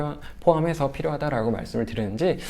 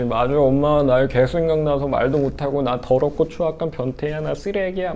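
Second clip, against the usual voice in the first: put-on confessing child. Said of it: "고해성사하듯이".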